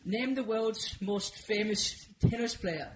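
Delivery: slow, put-on Dutch accent; badly botched Dutch accent. Shown as a demonstration. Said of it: "I had to do a Dutch accent".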